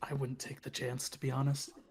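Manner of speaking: barely audible, hushed, breathy whisper. Voicing a character answering a whispered question: whispering in character. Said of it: "he'll just whisper back".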